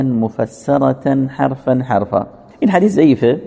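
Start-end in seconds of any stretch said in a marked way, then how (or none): 0.0-2.3 letter by letter. Shown as a demonstration. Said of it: "قرائت و تلاوت رسول الله ... مفسره بود".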